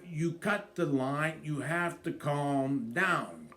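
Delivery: slow, calming plea; soothing. Retold or imitated. Husband trying to calm his drunk wife, slow and soothing. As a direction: ease her down gently and slowly.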